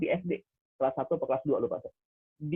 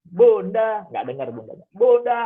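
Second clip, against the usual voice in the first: higher, much louder calls; imitating a child calling louder each time; 5 semitones higher, 8 dB louder, slower than usual. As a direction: call mom again and again. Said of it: "sampai teriak anak".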